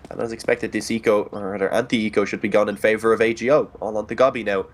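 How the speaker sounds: live play-by-play commentary; esports caster. Acted. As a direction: call the round as it happens.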